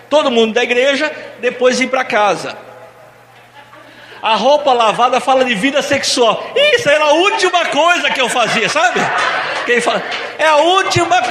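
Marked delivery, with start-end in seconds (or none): 4.2-6.5 laughing through the punchline; laughing reveal. Real, not acted. Teasing reveal to couples. 6.5-11.2 higher, half-shouted joking; playful teasing. Real, not acted. Joking about the laundry meaning.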